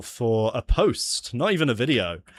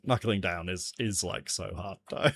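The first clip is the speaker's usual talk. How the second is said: softer, lower repeat of the complaint; subdued; 4 semitones lower, 6 dB quieter than usual. Pretend. Streamer after telling self off, subdued complaint. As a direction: grumble it low, half to yourself. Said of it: "Pull yourself together, man".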